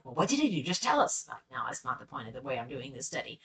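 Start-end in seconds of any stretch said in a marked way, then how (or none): 0.0-1.3 mock pleading from the audience; lightly put-on demanding listener; impatient listener. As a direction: voice an impatient student, slightly higher pitched. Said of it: "I know you're like".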